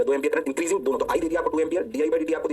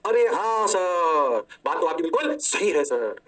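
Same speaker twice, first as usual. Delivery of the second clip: mock eager student; much slower than usual. Mock student agreeing with teacher.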